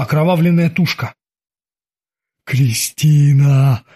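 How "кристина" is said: slow, drawn-out joyful call. Acted. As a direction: call her name in delight. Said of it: "обрадовался призрак".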